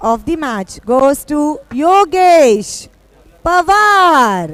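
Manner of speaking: loud and very slow name reveal; booming prize announcer. Acted. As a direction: build up and boom the winner's name. Prize announcement at award ceremony.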